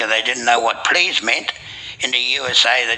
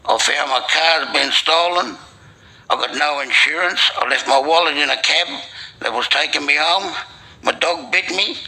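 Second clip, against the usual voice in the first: higher-pitched retold lament, mildly tearful; mock crying; 5 semitones higher than usual. Man at the bar recounting his worst day, mock crying. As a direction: pile up the woes in a raised, plaintive voice. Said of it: "Morden started crying".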